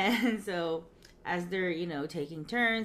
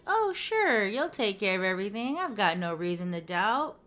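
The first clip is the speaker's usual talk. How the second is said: sarcastic; 4 dB louder than usual. Retold or imitated. Rachel mocking Ross's promise about the court date, sarcastic. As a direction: throw his promise back at him. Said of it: "I really trust those sentiments coming from you now".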